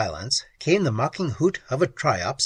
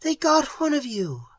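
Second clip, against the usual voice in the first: scream; 13 semitones higher than usual. A narrator's reading. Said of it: "Pat screamed".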